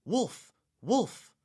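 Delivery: short high-pitched calls of alarm; mild yell. A narrator's reading. Bored shepherd boy imagining his false alarm, mild high yell. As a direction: call out, pitched well up but held back in volume. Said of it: "blow my horn and yell".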